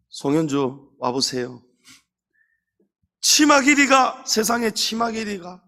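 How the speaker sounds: a tut-tutting, scandalized elder; disapproving elder. Retold or imitated. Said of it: "이러면은요". (치마 길이에 놀라 혀를 차는 장로)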